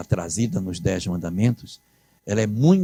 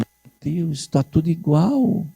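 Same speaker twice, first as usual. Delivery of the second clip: amazed onlookers; 6 semitones higher than usual. Retold or imitated. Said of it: "os que conheciam o texto diziam".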